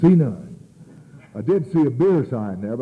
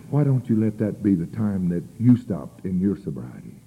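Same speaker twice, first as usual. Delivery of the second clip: earnest, measured appeal; dead serious; 2 semitones lower than usual. Retold or imitated. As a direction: reason with him in all seriousness. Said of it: "he got serious as heck on me".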